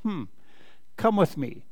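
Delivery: mildly kind, softened voice; kindly. A narrator's reading. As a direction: gently invite them along. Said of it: "said the rabbit kindly".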